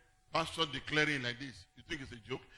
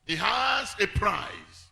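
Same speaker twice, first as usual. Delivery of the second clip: very slow, each word weighted; slow emphasis; 2 semitones higher, 6 dB louder, much slower than usual. Acted. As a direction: lay it down slowly. Sermon emphasis.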